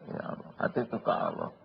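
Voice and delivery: soft whispered aside; low whispered prayer. Real, not acted. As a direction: breathe it out to God. Aside to God mid-story.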